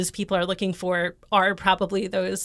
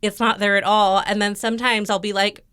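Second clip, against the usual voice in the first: ordinary delivery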